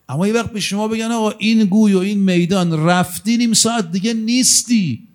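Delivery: high, fast and urgent from the pulpit; rising preaching cry. Real, not acted. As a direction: lift the voice high, pressing the point home. Preacher builds to climax.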